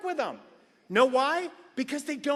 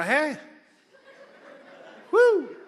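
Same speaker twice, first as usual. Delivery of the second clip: awkward whoop; 6 semitones higher, 6 dB louder than usual. Retold or imitated. Awkward cheerful greeting.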